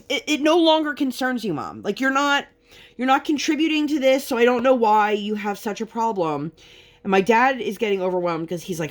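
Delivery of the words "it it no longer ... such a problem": high, heated retort to mom; exasperated. Retold or imitated. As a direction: snap back at mom, pitched up. Arguing with mom retold.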